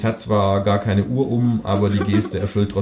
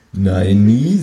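firm no; 6 dB louder than usual. Acted. Author's firm retort.

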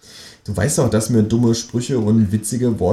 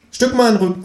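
kangaroo voice; 13 semitones higher than usual. Acted. Kangaroo's twisted phrase, high voice.

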